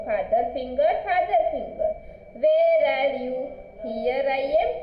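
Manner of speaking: sing-song nursery rhyme, line repeated rising then falling; rhyme recitation. Acted. Teacher reciting the finger rhyme to pupils, sing-song recitation. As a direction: recite it for children with drawn-out line endings.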